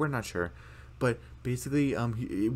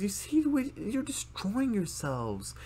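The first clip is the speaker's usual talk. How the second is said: slow, higher, scolding dad; stern dad voice; 11 semitones higher, slower than usual. Retold or imitated. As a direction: lecture slowly with concern. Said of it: "he says".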